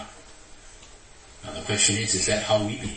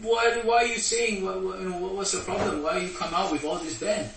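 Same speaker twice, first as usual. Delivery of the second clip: impudent question; 8 semitones higher than usual. Retold or imitated. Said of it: "impudently asked".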